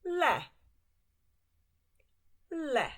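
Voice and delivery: le called out high and bright. Shown as a demonstration. Teacher introducing a new Hungarian word. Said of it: "Don't get it confused with el".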